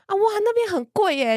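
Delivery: high-pitched mock gasp of surprise; imitating mother's surprise. Friend's mother hearing the pricey neighbourhood, mock surprised. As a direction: play the shocked aunt, pitch way up.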